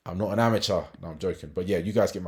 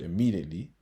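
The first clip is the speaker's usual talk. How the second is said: "immediately" picked out with emphasis; stress on IMMEDIATELY. Real, not acted. Trader explains the reason he said it, stressing "immediately". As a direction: lean on the word "immediately". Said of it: "emphasis on immediately".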